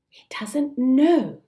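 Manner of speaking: whispered in horrified disbelief; shocked whisper. Acted. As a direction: gasp it out under your breath. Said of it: "exclaimed Wendy, thoroughly shocked".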